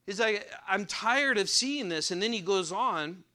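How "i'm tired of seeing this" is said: mild acted exasperation, pitched up; fed up. Prophet tired of seeing violence, mildly fed up. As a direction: say it like you've had enough. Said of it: "It makes your blood boil".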